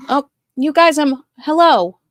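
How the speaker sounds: high, loud excited squeal; excited outburst. Real, not acted. Host overwhelmed by viewers' comments, squealing with delight.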